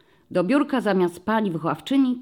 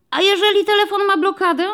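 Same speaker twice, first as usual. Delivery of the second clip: put-on high, loud child voice; child asking; 14 semitones higher, 7 dB louder than usual. A narrator's reading. Child by the window asks the policeman: high curious child. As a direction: ask it like a curious kid by the window. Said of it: "doleciało pytanie spod okna".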